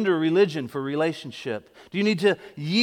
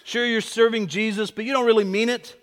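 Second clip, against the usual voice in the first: lightly voiced inner accuser; higher, louder taunting accusation; accusing lie; 5 semitones higher, 4 dB louder than usual. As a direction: voice the lie that undermines belief. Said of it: "What about this lie?".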